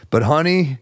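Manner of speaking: hammed-up Russian accent plea to his girlfriend; lightly Russian accent. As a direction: play the groom turning to his girlfriend, faintly Russian. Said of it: "he's got a thick Russian accent".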